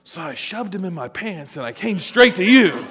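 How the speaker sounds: a lightly voiced guilty camp counselor; sheepish counselor. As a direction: mumble it like a guilty man. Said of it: "He goes".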